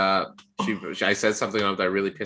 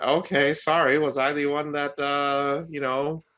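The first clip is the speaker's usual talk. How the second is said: higher, louder sarcastic whine; mock sarcastic apology; 6 semitones higher, 4 dB louder than usual. Answering the date's request for the bill, sarcastic mock apology. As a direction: drip sarcasm, half laughing.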